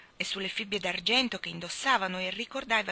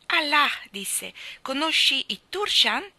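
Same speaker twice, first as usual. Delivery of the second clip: higher, louder and slow with amazement; astonished old man; 7 semitones higher, 7 dB louder, slower than usual. Acted. Old guide hearing familiar names, loud and amazed. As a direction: let wonder lift every word.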